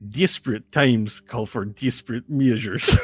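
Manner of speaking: hammed-up Russian accent; thick mock-Russian villain line. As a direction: play a Russian mad scientist. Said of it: "With a Russian accent".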